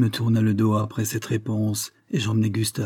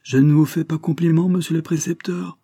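high, raised, contemptuous rebuke; scornful; 7 semitones higher, 4 dB louder than usual. A narrator's reading. Colonel rebuking the boy's tutor, scornful. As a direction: look down on the tutor as you say it. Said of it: "me dit le colonel d'un air méprisant".

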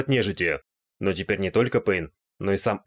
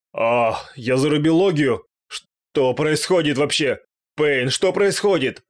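higher, louder, slow bewildered wail; trembling with dismay; 5 semitones higher, 5 dB louder, slower than usual. A narrator's reading. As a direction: cry out slowly in horrified confusion. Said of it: "Задрожал Нос". (растерянный испуганный вопль)

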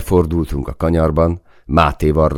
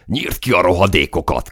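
lightly raised, higher battle cry; whooping shout; 5 semitones higher than usual. A narrator's reading. Soldier cheering on the gunner, whooped shout. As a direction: whoop it out, egging someone on. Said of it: "kúrjantott egy nagyot Máté".

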